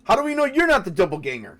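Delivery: high, quick accusing question; suspicious, in-character challenge; acted challenge. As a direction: demand proof from a suspect. NPC challenges the accused player.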